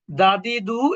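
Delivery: "দাদি দু" with a dental Bengali দ; Bengali দ sound. Shown as a demonstration. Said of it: "এটা বাংলা দয়ের মতো". ("দাদি দু" বাংলা দয়ের মতো উচ্চারণে)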